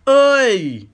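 loud, high triumphant yell; whooping with glee; excited shout. Acted. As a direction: crow over the catch. Catches a fish, celebrates.

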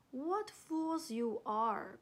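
slow, mildly scornful exclamation; scornful cry. Acted. Leopard to the other animals, crying out scornfully. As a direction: call out slowly, looking down on them. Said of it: "cried a voice".

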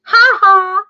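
high mocking bird voice with a jeering laugh; cocky blue jay jeering from above; taunting blue jay. A narrator's reading. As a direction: tease the kittens from the tree. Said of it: "said a voice".

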